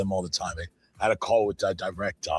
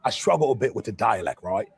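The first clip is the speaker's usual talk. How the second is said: mock British actor. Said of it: "change your accent".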